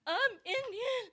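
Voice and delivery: put-on high, slow, crying child; child near tears; whiny cry. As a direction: wail it like a hurt kid.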